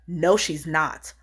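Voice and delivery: slow, curt "No, she's not"; a hint of a cold, dismissive nurse. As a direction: brush her off, slowly. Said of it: "And she was like".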